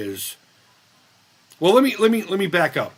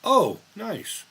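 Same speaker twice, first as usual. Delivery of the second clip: mock high sing-song "Oh, nice"; quoting her; 7 semitones higher than usual. Streamer imitating how a viewer says nice, high and sing-song. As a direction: lilt it up like the viewer would. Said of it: "I'll quote her".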